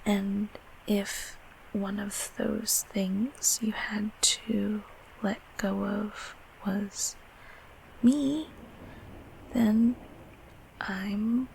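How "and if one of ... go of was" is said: slow, softer, careful phrasing; hesitant. Acted. Creature to a grown-up child it once looked after, hesitant. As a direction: ease into a difficult admission, softly. Hesitant admission about being let go.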